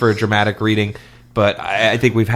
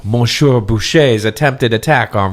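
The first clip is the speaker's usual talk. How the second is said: dramatic reading. Acted. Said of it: "this leads into my dramatic reading".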